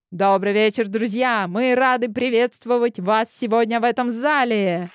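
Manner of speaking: bright, carrying stage announcer; ringing emcee voice. Acted. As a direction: greet the hall like an emcee. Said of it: "раздался звонкий голос конферансье".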